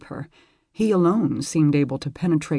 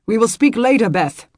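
hurried reply; 6 semitones higher, 6 dB louder than usual. Acted. Hurried lord answering.

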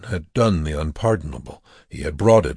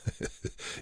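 quiet, breathy little laugh; soft laugh; 16 dB quieter than usual. A narrator's reading. Prisoner making light of chance, quiet short laugh. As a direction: laugh briefly under the breath. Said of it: "Wernicke laughed".

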